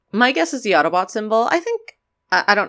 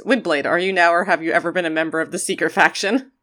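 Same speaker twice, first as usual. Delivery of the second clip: Senator McCarthy voice. Retold or imitated. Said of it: "Senator McCarthy voice".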